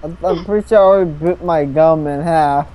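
after wisdom teeth. Real, not acted. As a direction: talk through numb lips. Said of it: "You sound like a little baby".

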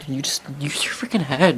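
scornful whisper; whispered jab. Retold or imitated. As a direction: hiss it under your breath. Scolding aside about the kid.

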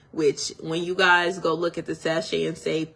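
talking with retainers in; retainers in mouth. Real, not acted. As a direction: speak around your retainers. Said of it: "If I take my retainers out".

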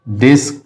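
डिस्क cut off as a separate syllable; first syllable alone. Shown as a demonstration. Teacher dividing discuss for students, first syllable alone. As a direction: say डिस्क by itself, then pause. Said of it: "उसके बाद है डिस्कस में".

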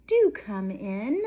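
loud, drawn-out storybook welcome; slow hostess call; gushing invitation. A narrator's reading. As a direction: usher a guest in, stretching the words. Story mouse invites friend inside.

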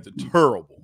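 Southern "turrible" for "terrible"; "terrible" as "TURR-ible" in Southern dialect. Shown as a demonstration. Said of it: "That's all my Southern dialect anyway".

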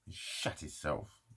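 slow, hushed whisper; slow whisper while recalling the scared man; whispered aside. Real, not acted. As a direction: drop to a whisper, savouring it. Gleeful aside after confrontation.

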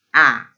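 «Α» pitched low, bleated like a sheep. Shown as a demonstration. Teacher demonstrating the Norwegian vowel as a sheep sound. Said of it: "σαν το πρόβατο".

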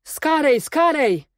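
high urgent call, each word falling; officer's repeated cry. A narrator's reading. Recalling the officer's twice-repeated order, high urgent cry. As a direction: cry it twice, pitched well up. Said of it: "dwa razy powtórzonym wykrzyku oficera".

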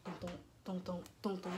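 hushed heartbeat thuds; imitated heartbeat. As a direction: voice a pounding heart, quietly. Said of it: "my heart still just beating".

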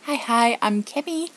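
high, goofy hello; silly greeting. Real, not acted. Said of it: "I know that was retarded".

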